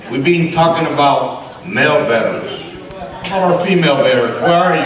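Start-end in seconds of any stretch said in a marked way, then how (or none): 3.3-4.8 calling out. Real, not acted. Calling out to female veterans.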